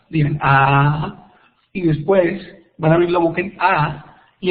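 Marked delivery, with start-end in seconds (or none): 0.4-1.3 "A" as a held, open-mouthed vowel. Shown as a demonstration. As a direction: open wide and sustain "A". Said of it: "Abren la boca en A".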